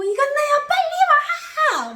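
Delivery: high, loud, slow tearful shout; crying yell. Retold or imitated. Holding the bus door, shouting tearfully at the sister. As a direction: beg her loudly through tears. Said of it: "막 이러는 거예요".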